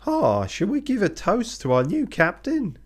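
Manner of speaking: high, loud cheery call to the table; rousing toast. Acted. Crewman calling the dinner table to toast the new captain, loud and cheery. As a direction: raise a glass and rally the room.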